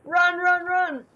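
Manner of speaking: high, loud victory cheer; excited shouting. Real, not acted. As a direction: yell it out in triumph. Game won, cheering.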